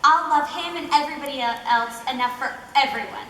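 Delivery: lightly acted, unfazed sweetness; Lizzie. Loving fiancée shrugging off tragedy, lightly voiced as unfazed. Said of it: "she's, like, unfazed by it".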